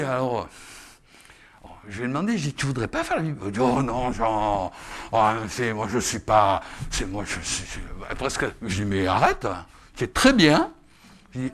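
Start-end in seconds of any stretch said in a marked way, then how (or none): 3.6-8.5 mock timid voice. Voices timid sister refusing.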